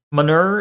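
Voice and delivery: manure said as muh-NUR; rural-style "manure", ending like "fur"; rural pronunciation. Shown as a demonstration. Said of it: "is the more rural pronunciation".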